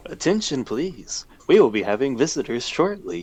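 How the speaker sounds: lightly voiced PA announcement; intercom voice. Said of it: "some little intercom voice".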